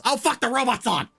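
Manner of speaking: loud, high hammed-up alarm; hammed-up researcher yelping that the robot is on; mock panic. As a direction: play the startled researcher.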